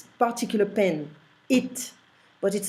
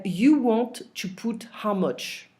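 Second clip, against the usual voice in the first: literal translation; 3 semitones higher, slower than usual. Shown as a demonstration. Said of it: "I'm not gonna say that in English".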